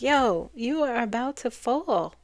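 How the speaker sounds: slow, loud warning call from the dog; the dog's warning. Retold or imitated. Dog warns the Fool he's about to fall, slow and loud. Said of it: "the dog is there saying".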